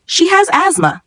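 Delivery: high urgent shout. A narrator's reading. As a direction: shout over the fire. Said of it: "I shouted over the crackling".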